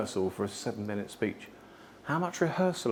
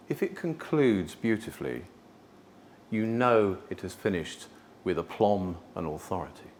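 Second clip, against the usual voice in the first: lower, measured, final close; concluding with aplomb; 5 semitones lower than usual. Shown as a demonstration. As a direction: land the ending with aplomb. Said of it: "finished with an authority end".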